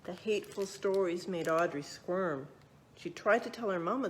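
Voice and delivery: lively storybook narration; reading to children. A narrator's reading. Librarian reading a true story to children, lively narration. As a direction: read it out like a picture book for kids.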